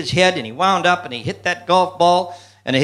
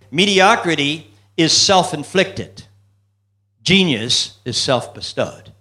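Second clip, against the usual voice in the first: slow emphatic; slower than usual. Real, not acted. Punchline maxims, slow deliberate delivery.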